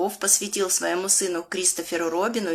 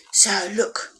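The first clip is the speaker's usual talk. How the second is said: hushed storytime whisper; conspiratorial whisper to the children. Pretend. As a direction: draw them close and whisper. Secret moment in the story.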